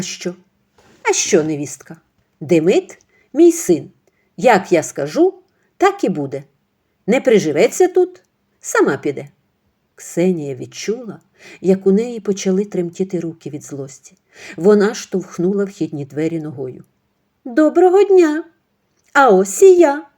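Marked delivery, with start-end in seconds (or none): 1.0-9.3 put-on louder, domineering older woman; bossy mother-in-law. Mother-in-law dismissing her daughter-in-law to a friend. 17.4-20.1 high, loud, sarcastically bright greeting; mock cheerful entrance. Ksenia bursting in on the gossiping women, sarcastically cheerful.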